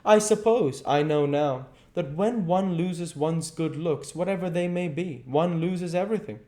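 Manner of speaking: hurt and jealous, voice rising; a hint of a flushed angry youth; almost angry. A narrator's reading. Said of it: "He seemed almost angry".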